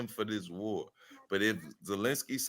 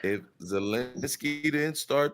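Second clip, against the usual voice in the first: choppy bad connection audio; cutting out on the call; breaking up; 3 semitones lower than usual. Real, not acted. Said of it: "You're breaking up".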